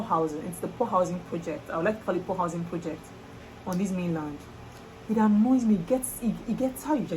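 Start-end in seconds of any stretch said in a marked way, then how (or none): 5.1-7.1 getting worked up. Real, not acted. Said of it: "let me calm down".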